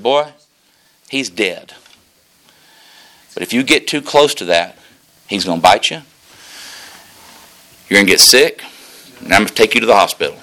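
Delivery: a hint of a stern old deacon, low and loud; lightly voiced old man warning a boy; old deacon's warning. Old deacon warning young boy off the snake head, low and loud.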